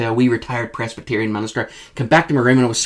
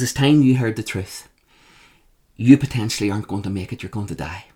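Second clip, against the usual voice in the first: grave quiet verdict; 3 semitones lower, 5 dB quieter than usual. Retold or imitated. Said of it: "That's exactly the way she said it".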